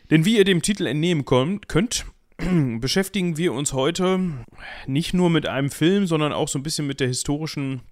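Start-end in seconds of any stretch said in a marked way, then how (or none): 0.1-5.3 higher, brighter restart, full of drive; wound-up restart. Shown as a demonstration. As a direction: relaunch it like a wind-up car. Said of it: "Ich fühl mich wie so ein Aufziehauto".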